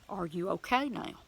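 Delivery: soft, caring question; sweet, gentle. Retold or imitated. God checking on a weeping believer, gentle. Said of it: "Just a sweet, gentle voice".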